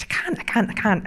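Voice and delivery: a touch of flustered pleading; mild mock panic. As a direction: lightly act out a panicked refusal. Retold panicked reply to the boss.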